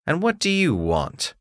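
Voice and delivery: gruff demanding smith; blacksmith voice. Acted.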